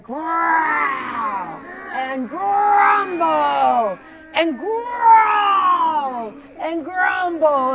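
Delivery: very slow, loud growling and grumbling. Shown as a demonstration. Teacher leading the class in a loud slow growl. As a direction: roar it out like a rumbling belly. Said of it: "Let me hear it".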